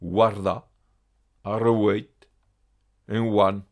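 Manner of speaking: "Guarda" said warda, with a W. Shown as a demonstration. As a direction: make the GU in "Guarda" a plain W. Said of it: "se prononce souvent seulement W". (« Guarda » avec un simple W initial)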